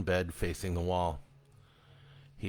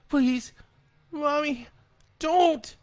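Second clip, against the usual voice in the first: put-on high, loud child's plea; a boy begging for his life; terrified begging; 5 dB louder, slower than usual. A narrator's reading. Boy begs his clawed mother to stop, high and terrified.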